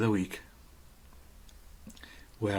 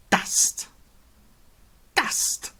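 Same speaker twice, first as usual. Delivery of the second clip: whispered dust; 12 semitones higher than usual. Retold or imitated. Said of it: "Robin says".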